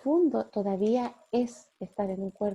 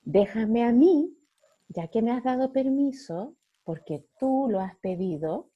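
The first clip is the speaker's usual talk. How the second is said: Holy Spirit speaking; 4 dB louder than usual. Acted. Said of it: "el Espíritu Santo nos dice".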